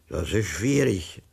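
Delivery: slow, unruffled remark; calm. A narrator's reading. Inspector calmly weighing the case, slow and composed. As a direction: keep it slow and even, unbothered. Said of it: "sagte der Inspektor ruhig".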